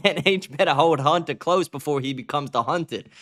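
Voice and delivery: badly faked African American accent; mock Black American accent. Streamer mockingly reading a threatening post, badly faked African American accent. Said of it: "I'm trying to read it in, like, my best black accent".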